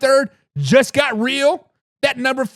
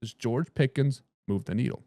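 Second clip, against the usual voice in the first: lower, softer repeat of the question, rising at the end; hushed dramatic repeat; 11 semitones lower, 8 dB quieter than usual. Shown as a demonstration. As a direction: drop the voice and let it hang on Pickens. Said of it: "What do you guys think?".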